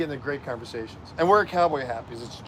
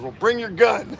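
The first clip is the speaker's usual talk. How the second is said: retold shout; 7 semitones higher, 6 dB louder, slower than usual. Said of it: "He goes".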